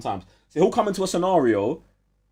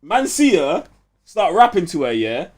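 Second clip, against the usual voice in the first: higher, louder, breathless retelling; excited storytelling; 6 semitones higher, 5 dB louder than usual. Real, not acted. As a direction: tell it like the best bit. Telling the show's climax excitedly.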